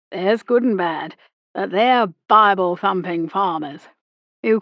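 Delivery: put-on retired captain sure of his old war; old army captain holding forth. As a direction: lecture her like a colonial veteran at the club.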